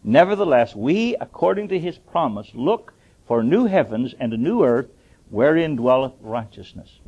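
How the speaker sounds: measured, declaiming Bible reading; scripture reading. Acted. Preacher reading scripture to his congregation, declaiming. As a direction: read the verse out to the church.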